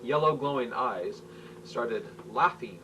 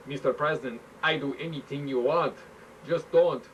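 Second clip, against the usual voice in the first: desperate plea; 3 semitones higher than usual. Acted. Prime minister begging the president to stop, desperate plea. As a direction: plead for mercy. Begging while being squeezed.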